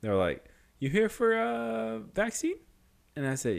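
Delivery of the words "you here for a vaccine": high, slow put-on voice; drawn-out, higher-pitched mimicked question; check-in staffer. Staffer asking if he's here for vaccine, mimicked high and slow.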